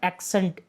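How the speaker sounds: "Accent" pronounced AK-sent, k then s; pronunciation demo. Shown as a demonstration. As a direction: model "Accent" for learners, sounding both k and s. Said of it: "इसका pronunciation क्या है".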